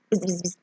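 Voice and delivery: soft mock wasp buzz; faint imitated buzzing; quiet buzzing. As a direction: buzz under the breath like a wasp. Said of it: "a wasp going".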